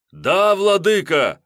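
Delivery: high, loud, slow answer of dread; frightened chorus. A narrator's reading. Henchmen answering the master in dread. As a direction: swear it out of fear. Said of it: "в глазах ужас".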